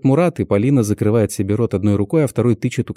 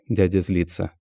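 ordinary delivery, nothing marked

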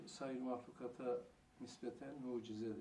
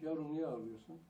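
mother asking; 4 semitones higher, 6 dB louder than usual. Retold or imitated. Mother asks crying child again.

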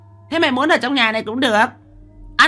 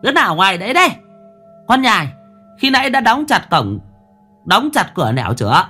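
loud, high, firm demand; hardened voice; 9 semitones higher, 3 dB louder, faster than usual. A narrator's reading. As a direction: keep the voice hard and bossy. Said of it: "mụ vẫn cứng giọng".

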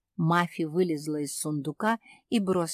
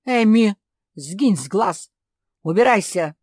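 loud furious order to leave; angry shout; 2 semitones higher, 9 dB louder than usual. A narrator's reading. Father chasing his daughter away, furious shout. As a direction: yell her out of the room.

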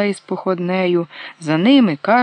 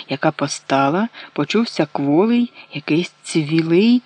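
ordinary delivery

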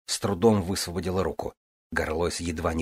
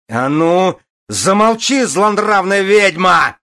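bellowing; 13 semitones higher, 11 dB louder, slower than usual. A narrator's reading. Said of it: "заорал Горлойс".

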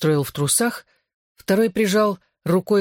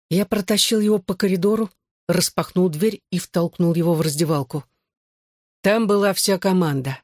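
usual speaking voice

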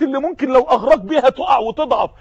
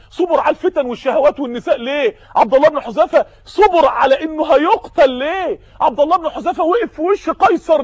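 preaching shout; 3 semitones higher than usual. Real, not acted. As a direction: call out the question at full force. Preacher's climax to congregation.

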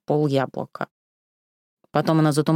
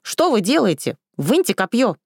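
mild acted scream; shouting in pain; 9 semitones higher than usual. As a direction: cry out from the sudden wound. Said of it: "закричала".

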